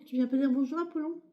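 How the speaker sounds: high, lilting call to a pet; coaxing pet call. Real, not acted. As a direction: coax a pet over to say hello. Calls to her pet Apollon.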